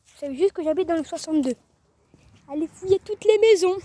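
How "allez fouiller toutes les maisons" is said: mock command. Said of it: "Non, je rigole".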